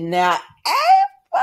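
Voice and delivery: high, very slow warning at Ava; drawn-out warning. Real, not acted. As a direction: stretch it out like a knowing scold. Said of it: "I said".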